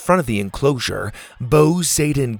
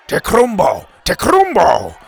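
loud, higher-pitched warning cry; alarmed shout; 7 semitones higher, 6 dB louder than usual. A narrator's reading. Warrior answering the chief, pointing down the path, shouting. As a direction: shout it back twice in alarm. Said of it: "the warrior shouted back".

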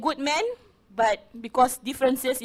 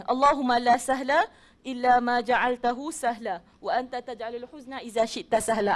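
measured prayer recitation; dua recitation. Acted. Teacher reciting a dua to her audience, measured recitation. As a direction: recite it carefully, word by word.

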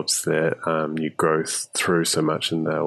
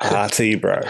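New Zealand accent on "Arty, bro", AR-tee; 3 semitones higher than usual. Shown as a demonstration. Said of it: "how I'd pronounce it with our New Zealand accent".

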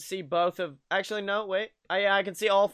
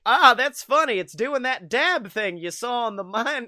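imitated clueless parents; 3 semitones higher than usual. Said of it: "'cause the parents were like".

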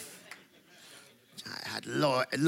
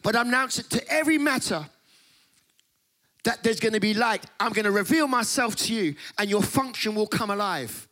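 raised, grand proclamation as God; God announcing; 6 semitones higher than usual. Acted. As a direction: announce it like God to all creation. Preaching God's voice.

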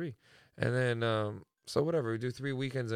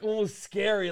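excited; 9 semitones higher, 7 dB louder than usual. Real, not acted. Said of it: "he was, like, leaning in".

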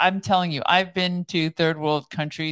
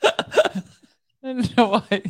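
drowsy, nodding off; sleepy and drifting, nodding off; 4 semitones higher than usual. Real, not acted. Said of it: "you're not with me on the show".

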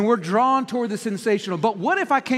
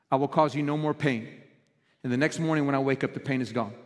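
low, softer, gentle divine voice; soft voice of God; 5 semitones lower, 3 dB quieter than usual. Retold or imitated. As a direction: speak as God, quietly and tenderly. God speaking to the pastor.

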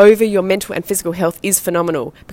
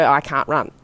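lower, deadpan flat excuse; 4 semitones lower than usual. Retold or imitated. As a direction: say it like a tired standard line. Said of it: "So I'd just go".

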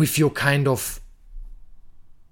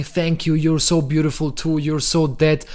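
people-pleasing thanks; 3 semitones higher than usual. Retold or imitated. Answering a compliment with eager people-pleasing gush. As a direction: fawn a little to return the compliment. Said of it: "instead of saying".

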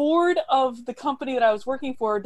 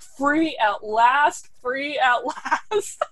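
mild mock scream; 4 semitones higher, much slower than usual. Leaving the office after being fired, joyful drawn-out cry. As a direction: stretch each word out in triumph, laughing at the end. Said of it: "I just screamed".

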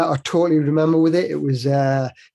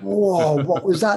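higher-pitched retold "whoa" of surprise; amazed reaction; 3 semitones higher, slower than usual. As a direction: relive the astonishment, voice lifting. Retold amazement at turbo kick.

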